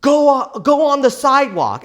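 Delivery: high, loud barked order; retold police yell. Police officer yelling at the driver to move, loud. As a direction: shout it like a cop ordering you off the road. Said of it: "they're yelling at me".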